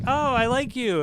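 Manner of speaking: high-pitched admiring gush; gushing fan. Retold or imitated. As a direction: imitate a delighted fan greeting you.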